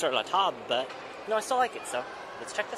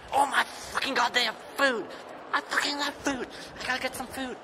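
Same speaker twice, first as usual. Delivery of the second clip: shrieking high and loud with joy; thrilled yelling about food; excited; 11 semitones higher, 5 dB louder than usual. Real, not acted. Excited outburst at seeing food.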